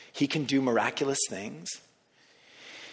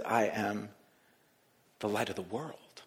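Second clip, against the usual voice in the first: soft, lower reverent "I am the light of the world"; hushed quote; 6 semitones lower, 7 dB quieter than usual. Acted. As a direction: let it fall quietly and low. Quiet repeat of Jesus's words.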